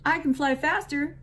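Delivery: high, loud chirpy bird boast; chirped. A narrator's reading. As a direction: chirp it proudly like a cardinal. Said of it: "chirped the cardinal".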